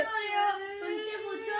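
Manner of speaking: slow, sobbing plea; real sobbing. Real, not acted. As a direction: get the words out between sobs. Son sobbing while arguing.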